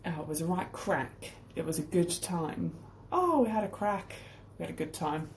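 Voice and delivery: a hint of a bad Irish accent; lightly put-on Irish lilt, self-mocking; terrible Irish accent. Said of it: "Terrible Irish accent".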